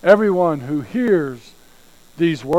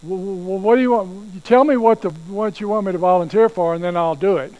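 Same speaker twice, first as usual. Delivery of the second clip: stammering hesitation; 3 semitones higher, 3 dB louder than usual. Retold or imitated. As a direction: stammer like a reluctant recruit. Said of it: "You don't say".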